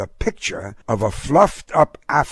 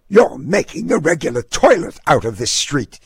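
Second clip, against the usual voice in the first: lightly hissed, higher-pitched scolding; hissed complaint; 6 semitones higher than usual. A narrator's reading. Snooty neighbor complains about the dog, mildly hissing. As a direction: scold with a touch of a hiss. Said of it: "she hissed".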